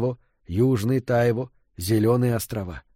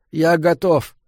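higher, strained groan of giving up; 5 semitones higher, 4 dB louder, slower than usual. A narrator's reading. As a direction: groan it out as one who is done for. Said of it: "застонал Фрид". (стонущий голос)

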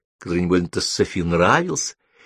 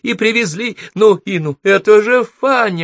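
surprised exclamation; 12 semitones higher, 5 dB louder than usual. Acted. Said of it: "затараторила миссис Ферфакс".

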